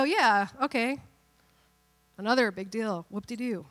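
acted "so what" dismissal; unimpressed. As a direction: shrug it off sarcastically. Acts unimpressed readers shrugging it off.

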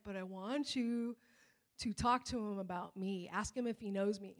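gentle insistence. Retold or imitated. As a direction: calmly press the request, quietly. God gently answers the protest.

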